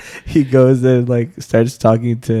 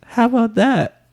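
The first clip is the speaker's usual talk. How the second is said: mock playful question; 10 semitones higher than usual. Voicing Ling playfully.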